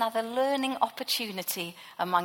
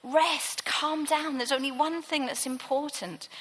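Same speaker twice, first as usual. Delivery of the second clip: higher, firmer but loving reproof; a lightly voiced Jesus rebuking Martha with affection; affectionate rebuke; 4 semitones higher than usual. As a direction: gently scold her to rest. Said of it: "this affectionate rebuke".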